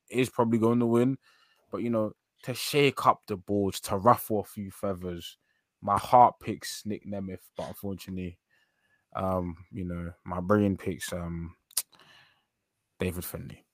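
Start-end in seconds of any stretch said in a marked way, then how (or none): 5.8-13.6 reluctant pick with long hesitations; begrudging. Real, not acted. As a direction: give up the answer unwillingly. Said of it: "You said that so begrudgingly".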